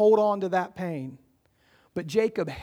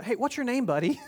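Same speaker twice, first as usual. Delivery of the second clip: lightly acted chatty question, pitched up at first; higher opening, ending near a laugh; mock-casual wrestler; 5 semitones higher, faster than usual. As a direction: play a wrestler casually making small talk, joking. Joke: wrestler quizzes opponent mid-match.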